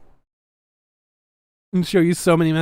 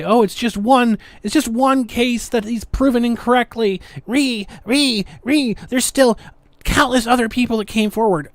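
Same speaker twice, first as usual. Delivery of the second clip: mocking the critics; 5 semitones higher than usual. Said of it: "all these people that come out and say".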